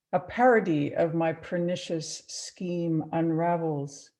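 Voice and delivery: slow, measured poem recital with long pauses; poetry reading. Acted. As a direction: read it phrase by phrase, letting each line settle. Reads second poem aloud.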